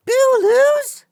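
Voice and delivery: put-on very high, puzzled childlike voice; childlike monster. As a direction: ask it like a baffled childish creature. Childlike Buu learns he lost.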